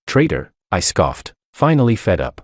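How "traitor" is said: high, spat-out insult; furious accusation. A narrator's reading. Father disowning his son, furious and high. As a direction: fling the word at him. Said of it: "His finger shook as he pointed at me".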